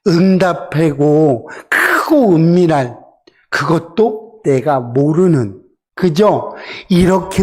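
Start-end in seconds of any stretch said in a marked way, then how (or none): 0.1-5.6 tearful. Acted. Quoting God's promise, voice breaking.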